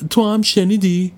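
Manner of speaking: put-on a child spooked in the dark; frightened whisper-question. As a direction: ask it scared and slow.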